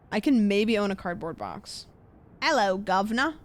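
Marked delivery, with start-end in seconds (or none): 2.4-3.3 lightly put-on Cockney greeting; brief mock British street accent. Streamer tossing chat a greeting, playful British accent. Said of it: "Can you do a British accent".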